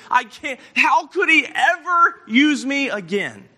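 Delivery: loud, high cry of self-reproach; acted anguish. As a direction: act out a man despairing of himself. Preacher voicing Peter's anguished self-doubt.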